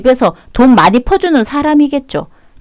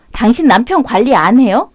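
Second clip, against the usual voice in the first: pointed question. Acted. Calls the wife to complain.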